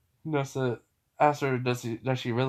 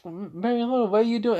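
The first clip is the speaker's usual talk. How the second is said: startled call; 9 semitones higher than usual. Acted. Noelle calls out, startled.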